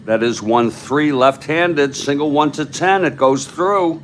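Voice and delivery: loud play-by-play climbing in pitch; excited hit call. Real, not acted. Announcer calling a single in a clutch situation, excited.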